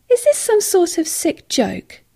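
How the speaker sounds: slow, high, breathy-free hushed question; disbelieving whisper. A narrator's reading. Woman asks the injured man, slow hushed whisper. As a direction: whisper it, afraid of the answer.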